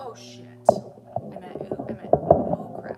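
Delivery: sudden loud panicked yelp; startled outburst. Real, not acted. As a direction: blurt it out in alarm. Mic dying, panicked exclamations.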